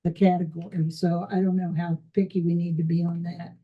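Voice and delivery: muffled voice, slightly unclear. Real, not acted. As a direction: talk with the sound muffled. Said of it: "you're just muffled enough".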